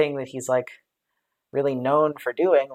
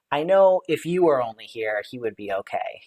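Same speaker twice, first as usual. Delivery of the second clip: sad, not accusatory. Retold or imitated. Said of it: "more of a, not accusatory, but acknowledging".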